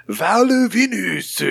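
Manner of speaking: put-on "Val Venus" high and drawn out in a caricatured Asian accent; slow, high parody Asian accent on "Val Venus"; mock Asian accent. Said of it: "How would an Asian person say Val?".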